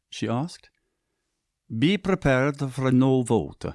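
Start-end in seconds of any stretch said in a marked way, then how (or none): 1.7-3.6 somber. Acted. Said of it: "he said somberly".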